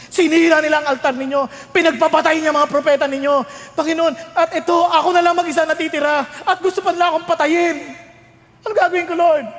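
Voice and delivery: a prophet's anguished plea; desperate lament. Acted. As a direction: cry out to God in despair.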